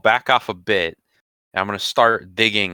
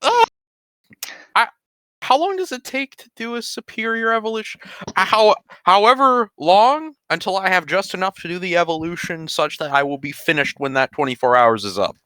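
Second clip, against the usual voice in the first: miner shouting in tunnel; 10 semitones higher, 3 dB louder than usual. Acted. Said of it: "I'm gonna do my best mining impression".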